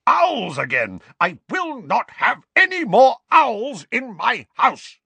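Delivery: loud, slow furious ranting; angry ranting. Acted. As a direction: rage about the owls. Vernon ranting about owls.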